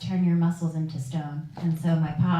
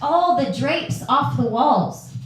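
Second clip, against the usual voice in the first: mock nurse complaint; 6 semitones higher, 5 dB louder, slower than usual. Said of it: "Martha from Sunrise Kingdom".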